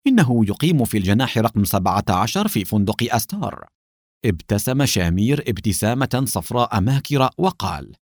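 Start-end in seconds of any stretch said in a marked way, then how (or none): 0.1-3.7 hoarse giant voice; rough, hoarse henchman's voice; giant alien. Acted. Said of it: "بصوت أجش".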